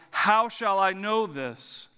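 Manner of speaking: slow, doubting question; disbelief. Acted. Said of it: "says it with a heart of".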